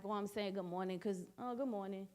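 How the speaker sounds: mumbled, offhand good morning on autopilot; autopilot greeting. Shown as a demonstration. Greeting someone on autopilot, quiet and offhand. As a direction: toss it off without meaning it. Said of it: "on autopilot".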